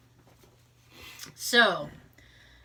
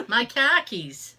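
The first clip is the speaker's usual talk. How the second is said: slow R-less Boston accent; slower than usual. Shown as a demonstration. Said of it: "Change your R's to A H's".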